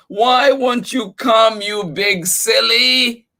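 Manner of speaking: high, loud exasperated cry; cried out. Acted. Mouse cries out at the dog that won't come, high loud. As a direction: plead with the stubborn dog. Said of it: "cried Mouse".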